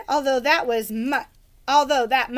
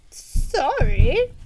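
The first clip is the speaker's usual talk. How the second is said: knight apology; 9 semitones higher, 6 dB louder than usual. Acted.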